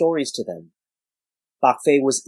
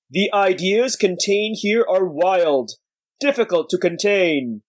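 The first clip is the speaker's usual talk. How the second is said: slow, weighty elder warning; old sage voice; 6 semitones higher than usual. Acted. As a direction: warn them like a weary master. Bak Fei warns the acolytes.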